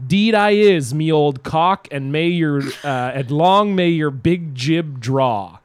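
put-on lightly hearty Newfoundland accent, drawn out at the end; Newfoundland toast. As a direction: recite a ceremonial Newfoundland reply. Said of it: "taught the proper response".

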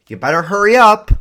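mock shouted hurry-up; nagging hurry. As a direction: bark it like an impatient partner. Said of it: "the other person is like".

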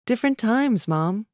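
mildly exasperated daughter; eye-rolling exasperation. A narrator's reading. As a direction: dismiss Mom with an eye-roll in the voice. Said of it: "had rolled her eyes".

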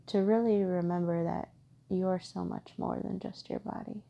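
calm, even meditation guide with long pauses; guided meditation. Acted. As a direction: gently guide listeners inward, steady and unhurried.

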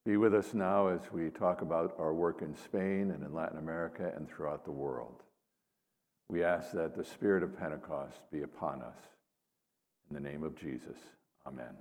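measured, solemn prayer. Acted. Leads an opening prayer.

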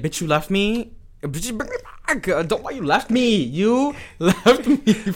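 high, loud mock whine of being left behind; mock shrieking drunk friend. Friend left alone at the club, high mock shriek. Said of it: "Be like".

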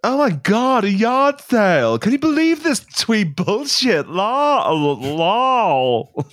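put-on sneering Valley Girl teen, drawn out; bored mean-girl Valley Girl sneer; Valley Girl accent. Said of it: "Classic Valley Girl verb".

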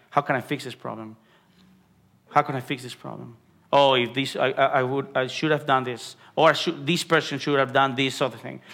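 quiet, fast anxious self-talk; worried inner thoughts. Retold or imitated. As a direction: rush through a fretting mind's questions under the breath. Voicing a worried believer's thoughts.

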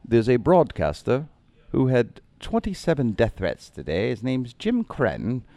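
slow mock British newsreader accent; imitating British radio announcer. Radio in the cab announcing his death threats, mock British accent. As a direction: read it out like a British radio host. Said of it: "sounded like a British person was saying".

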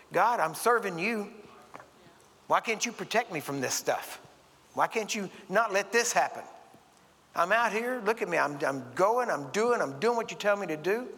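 retold desperate complaint to God; pleading prayer.

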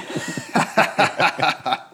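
evil cackle over a PA. Pretend. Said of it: "cackle on the loudspeaker".

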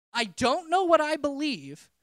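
loud, slowed-down shout; retold yell. Retelling yelling at Tony, loud and slow. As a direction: shout it slowly, reliving the moment. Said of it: "My response to was yelling".

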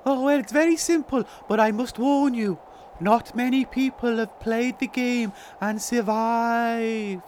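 lightly voiced goblin guide; Toodle Pip. Goblin warning players about the game, lightly put-on voice.

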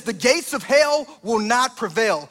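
proclaiming. Retold or imitated. Jesus proclaims to disciples.

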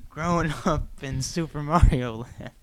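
lightly hammed-up Brooklyn accent; Bob Hoskins's Brooklyn. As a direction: do a mock Brooklyn tough guy. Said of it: "doing his Brooklyn voice".

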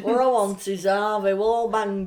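loud, put-on drink order; imagine how she talks, hammed up; put-on Ivanka voice. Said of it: "Do you think she talks like that?".

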